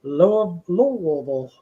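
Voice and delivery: "Louisville" run together as LOO-vul; "Louisville" in two syllables, the local way; local pronunciation. Shown as a demonstration. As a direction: swallow the middle of "Louisville", LUH-vul. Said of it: "Louisville or Louisville".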